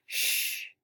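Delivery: "Shh" as a long voiceless hush; sh sound. Shown as a demonstration. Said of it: "You say it".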